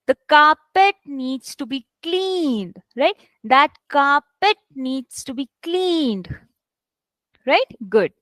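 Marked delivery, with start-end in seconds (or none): 0.1-2.8 slow read, "needs" lightly stressed after "carpet"; careful model falling on "cleaned"; small emphasis on needs. Shown as a demonstration. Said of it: "there's small emphasis on needs". 3.4-6.3 slow, light stress on "needs", falling on "cleaned"; drawn-out teacher's model sentence; small emphasis on needs. Shown as a demonstration. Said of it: "there's small emphasis on needs".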